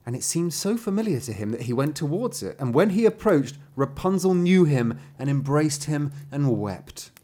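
heightened fairy-tale reading; dramatic story narration. A narrator's reading. Narrator telling of the braids being cut, dramatic storytelling.

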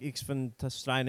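slow imitation of a German speaker; mock German premier. Imitating a podcast's German premier, mock German. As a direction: put on a brief, slow German voice. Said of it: "as soon as a guy's German voice came up".

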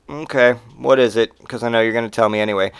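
low, resigned reply; weary indifference. Retold or imitated. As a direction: give in without any interest. Acted weary reply to newsbringer.

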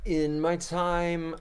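a hint of a slow old-timer; old man voice. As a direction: drawl it like a grandpa reminiscing. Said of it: "Old man Justin activated".

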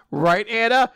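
eager call-out. Acted. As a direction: call out for her agreement. Lance suddenly calls to Anna.

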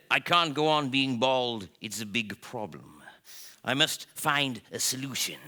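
a worried big cat complaining; lion's voice. Acted. Mister Gronk at tea, moaning about being bald, in a lightly voiced lion fret. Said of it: "he said".

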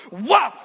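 sharp loud smack noise; loud mouth-made slap sound. Retold or imitated. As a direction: mimic the whop of a slap.

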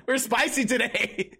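slow, giggly and amused; laughing. Real, not acted. Streamer laughing about the spicy topic, slow and amused. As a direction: savour it through a laugh.

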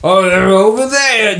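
high cheerful cat voice greeting the party; Marvin the cat. Acted. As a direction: purr it out, pleased to see old friends. Marvin answers.

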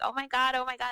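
high, hushed imitation of excited screaming; mock excited squeal. Friends in the film jumping excitedly, mock squeal. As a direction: squeal it small and high, mocking. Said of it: "they started screaming and jumping up".

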